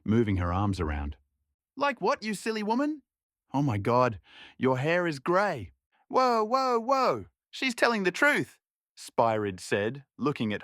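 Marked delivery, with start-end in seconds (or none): 1.8-8.6 astonished exclaiming. Acted. Spirid exclaims at grey hair.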